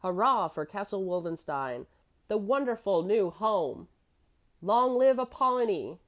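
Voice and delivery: building to a high loud cheer; boy's outburst of joy, rising to a shout; excited cheering. A narrator's reading. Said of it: "Kurt screamed now with all his might".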